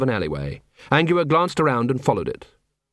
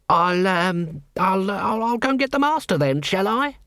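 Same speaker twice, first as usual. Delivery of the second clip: much higher, stammering nervous assassin; 6 semitones higher than usual. A narrator's reading. Frightened assassin to Vimes, stammering higher. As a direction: stumble over the words, rattled.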